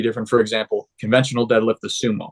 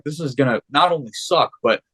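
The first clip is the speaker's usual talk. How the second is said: mock whiny complaint, rising higher; lightly acted disbelieving gripe; incredulous protest; 4 semitones higher than usual. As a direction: complain like it's pointless busywork. Retelling protest against coach's order.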